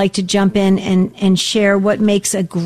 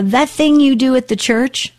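lightly voiced dad, a little higher; a hint of dad's questioning tone; imitating dad; 4 semitones higher than usual. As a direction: quote dad asking, pitch lifting at the end. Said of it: "that's how he said it".

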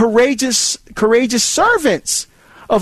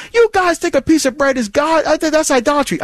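skeptical challenge; 8 semitones higher than usual. Retold or imitated. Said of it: "someone say".

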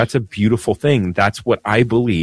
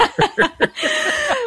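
high giggle. Real, not acted. Laughing at own accent.

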